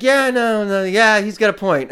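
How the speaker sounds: high, loud, breezy mock shrug; mocking Uber. Driver mimicking Uber support, loud mock nonchalance. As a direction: toss it off like a careless company.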